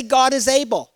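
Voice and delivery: "God" stressed with a falling end; a call for the congregation to repeat; preacher leading the congregation in a repeated phrase; call for response. Shown as a demonstration.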